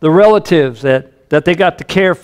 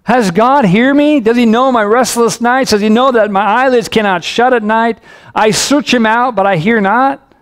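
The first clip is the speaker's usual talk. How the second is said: higher-pitched, pleading cry to God; anguished psalmist; 5 semitones higher than usual. Acted. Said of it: "Do you hear the anguish".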